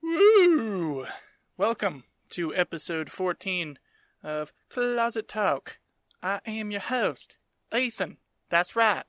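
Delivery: put-on slow Southern-accented show intro; Southern drawl accent. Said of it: "the entire podcast in an accent like that".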